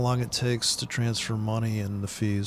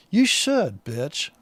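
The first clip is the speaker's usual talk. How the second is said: snarky comeback; 3 semitones higher, 3 dB louder, much slower than usual. Retold or imitated. Customer's silent answer to the free burger, snarky. Retold snarky thought at the cashier.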